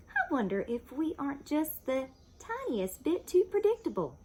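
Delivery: lightly voiced wife, wistful; a hint of a dreamy wife; Missus Watson voice.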